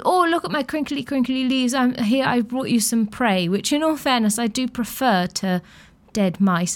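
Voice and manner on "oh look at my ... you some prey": lightly voiced kitten, proud and pleased. Kitten proudly presenting leaves to owner, light playful voice. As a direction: show off the crinkly leaves like a proud cat. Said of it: "very proudly and goes".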